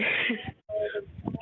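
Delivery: high, breathy nervous giggle; a shaky little laugh before speaking. Real, not acted. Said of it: "Sorry, I'm a bit nervous".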